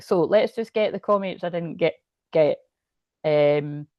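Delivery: talking through hiccups; hiccuping between words. Real, not acted. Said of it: "I can't stop hiccuping".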